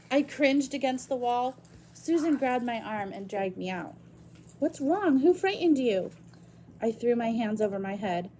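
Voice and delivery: reading a novel aloud to the class; story narration. Acted. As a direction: tell the story to students. Reads novel chapter aloud to class.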